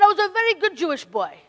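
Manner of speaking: put-on loud, proud old man's voice; a lightly voiced old man; mild old man impression; imitating Hank. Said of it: "I'm gonna try to imitate Hank".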